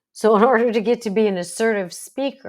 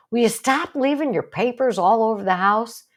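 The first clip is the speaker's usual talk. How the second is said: negative demand; 4 semitones higher, 4 dB louder than usual. Shown as a demonstration. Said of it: "As opposed to".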